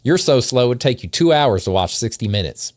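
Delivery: put-on light Southern accent for the insults; mild put-on Southern accent. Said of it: "read these in a Southern accent".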